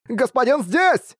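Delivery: very high, slow excited cheer; gleeful high squeal; bats exclaiming. A narrator's reading. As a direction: cheer for the master. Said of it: "воскликнули летучие мыши".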